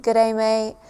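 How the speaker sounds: lightly done Aussie "Good day, mate"; Australian accent. Shown as a demonstration. Explaining little sayings Australia is known for, Australian accent. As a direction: quote it with a touch of Australian accent. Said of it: "for their accent and".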